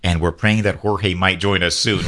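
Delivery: normal talking voice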